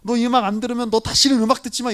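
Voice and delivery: mock bully forcing music on a friend; mock threatening. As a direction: push the music on them like a threat. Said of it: "이렇게 이야기할 필요가 있을까요?".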